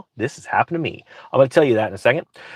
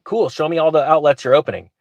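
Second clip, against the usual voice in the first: ordinary delivery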